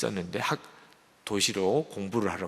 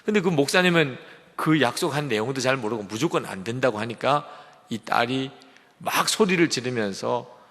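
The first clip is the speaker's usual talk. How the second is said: ordinary talk, nothing marked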